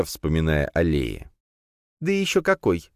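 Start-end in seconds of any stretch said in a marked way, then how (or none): 2.0-2.9 higher, lively spider voice; cheeky high creature aside. A narrator's reading. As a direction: chirp it like a gleeful spider. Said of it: "добавила паучиха".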